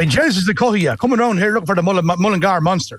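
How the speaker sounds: "the Cohia" in a broad Irish Midlands accent. Shown as a demonstration. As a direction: use the phrase like a Mullingar local. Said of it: "three phrases to add to your vocab".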